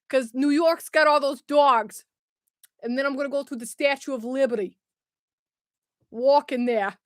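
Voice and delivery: attempted New York accent; amateur New York accent. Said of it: "it's a New York accent".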